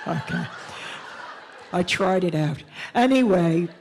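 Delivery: a lightly voiced chatty older white lady, giggling; older white lady character. Older white lady character chatting nervously to the rally crowd, giggling. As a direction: play a well-meaning, awkward older white lady.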